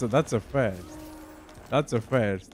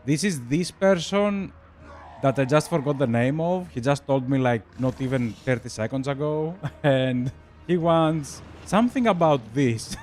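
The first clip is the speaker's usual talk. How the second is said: flustered, laughing; 3 semitones higher than usual. Retold or imitated. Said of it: "and I'm like".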